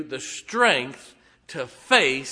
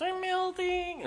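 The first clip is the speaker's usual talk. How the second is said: high, slow wailing witch cry; Wicked Witch; 4 dB quieter, slower than usual. Retold or imitated. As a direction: wail it like a melting witch. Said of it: "like the Wicked Witch on The Wizard of Oz".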